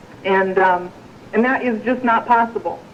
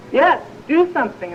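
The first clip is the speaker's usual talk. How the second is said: mildly acted urgent plea, higher pitch; a touch of desperation, pitched up; hanging man's plea; 5 semitones higher than usual. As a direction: lightly play a man begging for help. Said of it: "the guy says".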